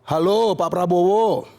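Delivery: plain confident phone greeting; hint of Jokowi on the phone; lightly voiced Jokowi. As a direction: greet him casually, no nerves. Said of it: "Pak Jokowi nelpon Pak Prabowo".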